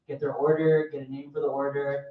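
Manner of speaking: a hint of a peppy boss; mock corporate trainer. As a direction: play a chirpy Starbucks trainer.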